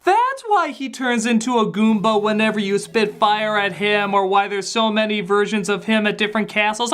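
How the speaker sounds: ordinary talk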